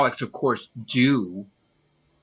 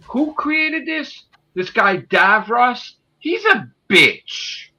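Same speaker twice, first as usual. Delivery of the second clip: mock ranting podcaster; 4 semitones higher than usual. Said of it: "He's like".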